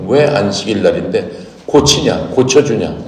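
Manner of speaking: scolding. Retold or imitated. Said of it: "막 이렇게 꾸짖는 겁니다".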